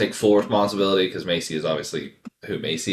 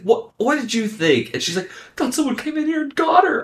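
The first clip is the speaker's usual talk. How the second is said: laughing, high-pitched retelling; 10 semitones higher, 7 dB louder than usual. Real, not acted.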